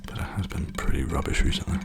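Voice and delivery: soft, hushed ASMR talk; softly spoken. Real, not acted. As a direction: speak gently, half whispered. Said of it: "I'm gonna keep being softly spoken".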